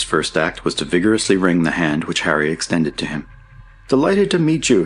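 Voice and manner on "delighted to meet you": high, hearty greeting; high-voiced, eager welcome; delighted exclamation. A narrator's reading. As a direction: exclaim it with delight, pitched right up. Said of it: "he exclaimed".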